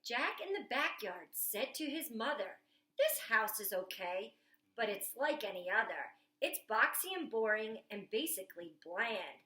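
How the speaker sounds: put-on lively picture book read aloud to children; storytime reading. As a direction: read it like story time at the library, bright and eager.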